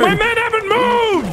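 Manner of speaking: exasperated. Real, not acted. Men not moving in game.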